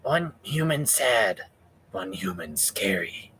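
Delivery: slow simple little critter; nervous sleepy possum. Pretend. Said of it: "opossum voice".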